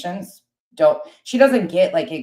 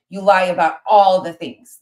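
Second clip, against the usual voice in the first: angry; 3 semitones higher, 7 dB louder than usual. Real, not acted. Arguing with rival creator.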